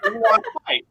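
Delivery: loud, high playful "wanna fight" taunt; teasing tough-guy dare; mock challenge.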